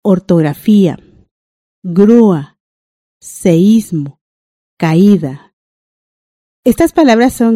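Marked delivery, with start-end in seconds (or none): 0.0-5.5 each word said alone, leaning on the stressed vowel of the hiatus; grúa and caída with the stressed ú and í held clearly; careful word reading. Shown as a demonstration. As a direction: read each word slowly, hitting the accented vowel. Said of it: "Vamos a leer".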